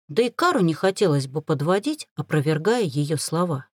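ordinary delivery, nothing marked

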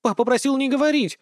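put-on high, loud girlish outrage; outraged little girl's voice; indignant daughter. A narrator's reading. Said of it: "возмутилась дочка".

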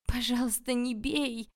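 high, loud, pitiful plea; plaintive cry. A narrator's reading. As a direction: beg loudly not to be hit. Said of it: "крикнула я жалобно".

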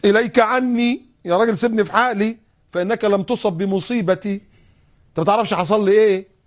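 loud high upset snapping; tearful brush-off. Retold or imitated. Grieving woman snapping at stranger upset. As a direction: push him away in grief. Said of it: "وهي بتبكي".

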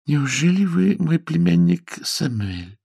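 high, slow disbelief; astonished question. A narrator's reading. Aunt recognises her nephew Samuel, astonished. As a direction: ask slowly, pitched well up.

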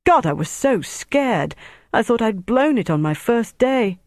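enthusiastic. A narrator's reading. Young agent confesses fear to rescuer, excitedly. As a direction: gush with relief after a scare. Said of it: "Helicopter said enthusiastically".

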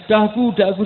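high, loud mock command; re-enacted yell; retold barking. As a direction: replay your own shouted order. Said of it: "sampai saya bentak-bentak".

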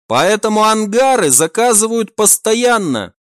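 bright, eager sidekick reporting in; eager young crewman. Acted. Max explains the hangars.

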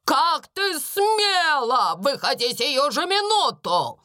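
медленно, с нажимом на смела; отчеканить с гневом; гневный окрик. A narrator's reading. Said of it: "крикнула она". (Минчин находит Бекки, окрик)

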